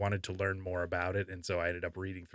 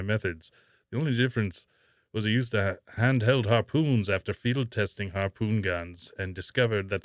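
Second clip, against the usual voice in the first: put-on a louder old shark hunter, still in character; held Robert Shaw impression, louder; 5 dB louder than usual. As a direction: keep answering as the crusty fisherman. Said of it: "I'll do it in my Robert Shaw voice".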